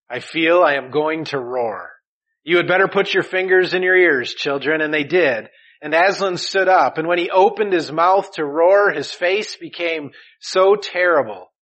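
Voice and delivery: loud, building story narration; dramatic story reading. Acted. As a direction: read the lion's warning with rising force. Reads Aslan passage from book.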